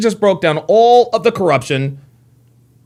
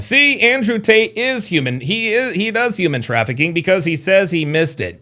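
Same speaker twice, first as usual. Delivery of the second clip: mock gotcha; 3 semitones higher than usual. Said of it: "acting like he's got the smoking gun".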